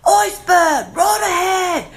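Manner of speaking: high, loud warning cry; lookout's shout. Retold or imitated. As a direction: shout it like a ship's lookout spotting ice. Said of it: "I feel like the guy up there".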